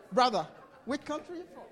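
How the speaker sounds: quick, laughing question. Real, not acted. Pastor asks a man his country, laughing fast. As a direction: rattle it off while still laughing.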